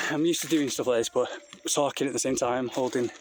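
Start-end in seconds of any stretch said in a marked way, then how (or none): 1.7-3.1 slightly out of breath while walking. Real, not acted. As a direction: talk between breaths on a climb. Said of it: "is why I'm probably out of breath".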